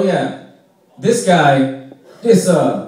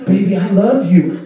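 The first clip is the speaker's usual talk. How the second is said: mock lover; 4 semitones higher, 5 dB louder than usual. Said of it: "you're just like".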